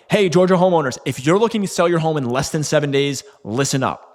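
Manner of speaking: grab attention like an ad; high-energy ad hook. Shown as a demonstration. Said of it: "this can look something like".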